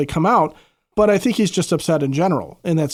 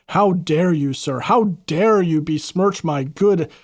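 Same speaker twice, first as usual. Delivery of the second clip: mock indignation; slower than usual. Mock outraged Pham quote.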